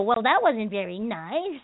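slow, mocking whine; mock whining. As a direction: imitate a sulky student, slowly. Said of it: "They would start whining about it".

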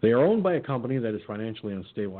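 rushed repeat; hurried reread by mistake; fast. Real, not acted. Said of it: "I just read that part".

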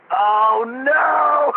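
retold alarmed cry. Scientologist learns seller is declared.

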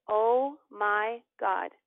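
very slow, stunned words; stunned realization. Retold or imitated. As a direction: let each word land in disbelief. Reacts to date on paper.

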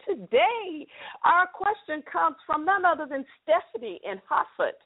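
put-on a light New England accent on Hartford; playful New England accent. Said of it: "I can use that accent".

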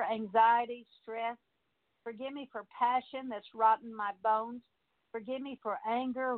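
measured, phrase-by-phrase petition with pauses; prayer. Real, not acted. Preacher leading listeners through deliverance, asking God's forgiveness, in measured prayer. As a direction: pray it as a litany of confession, pausing between petitions.

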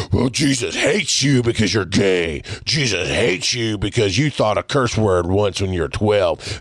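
lightly mocked church scold; a hint of preachy condemnation; condemning churchgoer. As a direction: mimic a judgmental congregation.

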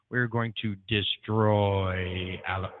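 slow, booming echo announcement; echo effect. Shown as a demonstration. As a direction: drag it out like an echo. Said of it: "Should I do my echo effect?".

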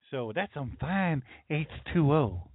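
slow, drawn-out Waterboy voice, lightly done; a lightly voiced Waterboy, each word stretched; Waterboy impression. Quoting the Waterboy movie to chat in a slow character voice. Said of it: "Water boy".

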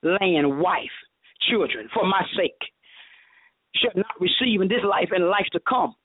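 low, slowing, measured list; very calm. Retold or imitated. Preacher voicing Jesus answering his disciple, very calm. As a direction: lay it out calmly, item by item. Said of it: "He said it very calmly".

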